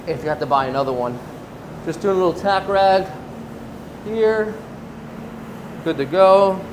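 muffled behind a respirator mask; through a respirator. Real, not acted. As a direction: talk through a paint respirator. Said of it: "I'm gonna talk to you guys through the respirator".

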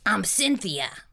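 low rasping monster voice; raspy monster. Acted. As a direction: rasp it out low. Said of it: "The second monster rasped".

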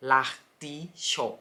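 l'artichaut stretched out, R kept light; drawn-out l'artichaut with a soft R; slow French demo. Shown as a demonstration. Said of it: "สังเกตจะออกเสียงแอร์เบาๆ". (ออกเสียง l'artichaut ช้าๆ แอร์เบาๆ)

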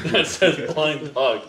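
says it through a laugh. Real, not acted. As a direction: laugh while reading the sign. Laughing at the blind dog.

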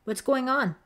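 high, loud demand. A narrator's reading. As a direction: insist on an answer at once. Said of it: "Deborah demanded".

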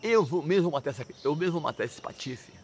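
firm acted vow, pushed at the start; mock determination. Indignant father vows to kill his own son, determined. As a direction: play a father grimly resolved, lightly. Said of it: "assim, determinou".

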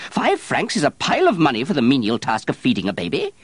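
loud, high indignant outburst; shouting. Acted. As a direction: keep yelling, scandalised. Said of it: "Terrier shouted at her".

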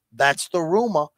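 put-on lazy Southern accent drawling out 'rumor'; Val Kilmer style Southern accent. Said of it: "You're doing a Southern accent".

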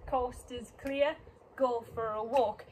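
slow, stretched move-calling; drawn-out dance cue. Shown as a demonstration. Dance teacher calls the moves to the class, drawn out. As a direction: stretch the words to fit the steps.

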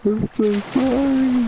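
laughing apology. Real, not acted.

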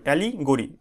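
"অ্যালিগরি" in two distinct parts, ali - gori; broken into parts. Shown as a demonstration. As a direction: separate "অ্যালিগরি" briefly in the middle, to teach it. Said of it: "এইভাবে উচ্চারণ করবে". ("অ্যালিগরি" দুই ভাগে উচ্চারণ)

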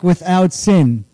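"without sin" as one unbroken phrase; one piece. Shown as a demonstration. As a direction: keep "without sin" joined, no pause. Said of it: "it's the same way".

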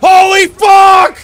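slow stretched shout of shock; drawn-out shocked yell. Real, not acted. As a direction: yell it out slowly, stunned. Ambushed in firefight, yelling.

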